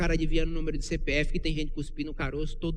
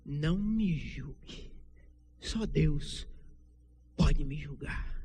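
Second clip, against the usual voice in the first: mocking quote; much slower than usual. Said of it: "aí só ficou assim".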